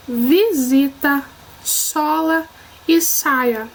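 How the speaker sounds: slow word-by-word reading, buzzed z in "vaso", crisp s in "sapo"; word-list reading. Shown as a demonstration. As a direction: read each word separately, contrasting z in "casaco" with s in "sopa". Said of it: "a diferença do som do S na leitura". (leitura pausada, palavra por palavra, diferenciando S e Z)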